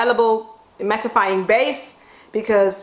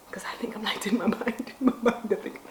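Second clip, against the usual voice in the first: self-mocking giggle, much softer; laughing; 10 dB quieter than usual. Real, not acted. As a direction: giggly half-whisper.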